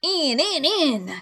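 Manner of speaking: high, urgent shouted order without extra volume; impatient shout. A narrator's reading. Blind beggar cursing his men's delay, high-pitched shout. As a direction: urge them on in a high cry. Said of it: "he shouted".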